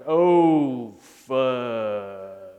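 a loud, drawn-out "Oh", then a sudden low "fudge"; Ralphie's "oh fudge". Retold or imitated. Ralphie dropping the bolts beside his dad, loud then low. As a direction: play Ralphie cursing over the dropped bolts. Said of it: "and he's like".

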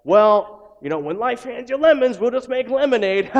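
high, loud, sing-song mock cheerfulness; cheesy optimist. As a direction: ham up a relentlessly perky churchgoer. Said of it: "we also don't wanna be the".

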